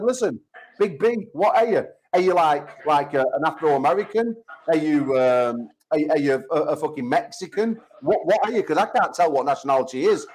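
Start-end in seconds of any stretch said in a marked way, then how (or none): 0.0-8.6 lightly mock-interrogate him; mock taunting message. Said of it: "I said".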